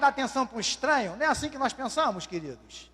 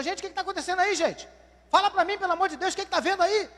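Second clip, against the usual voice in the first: pleading blind man; 7 semitones higher than usual. Acted. Cego pergunta o que acontece.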